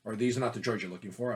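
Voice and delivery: lightly voiced calm Jedi; a hint of a hypnotic Obi-Wan; softly imitating a Jedi; Jedi mind trick. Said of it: "give them the Jedi mind tricks".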